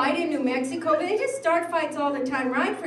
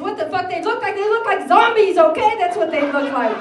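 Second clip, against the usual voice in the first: louder, exasperated yell at the cop; retold yell; 6 dB louder than usual. Yelling at the cop who asks what they look like, loud and exasperated. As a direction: shout it back down the phone, fed up.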